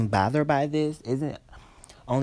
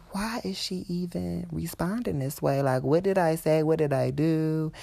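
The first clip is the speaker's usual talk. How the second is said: higher, softened bewildered aside; baffled inner thought; 4 semitones higher, 6 dB quieter than usual. Retold or imitated. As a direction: wonder to yourself, puzzled and hushed. Retold baffled inner thought about customer.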